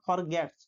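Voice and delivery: ফরগেটস ending in an audible TS; final S pronounced. Shown as a demonstration. Teacher insists the S be heard, ফরগেটস with its ending sounded. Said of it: "এটাকে আমাকে উচ্চারণ".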